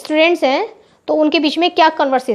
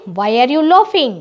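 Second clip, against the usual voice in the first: slow dictation; much slower than usual. Shown as a demonstration. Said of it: "तो English में कैसे बोलेंगे?".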